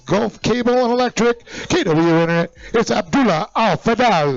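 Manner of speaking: announcer intro. Acted. Rider introduction.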